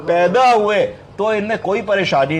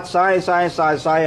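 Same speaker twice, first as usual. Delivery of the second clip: wheezy whistling breath; slower than usual. Retold or imitated. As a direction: imitate a hissing wheeze, lightly. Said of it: "सीटी जैसी आवाज".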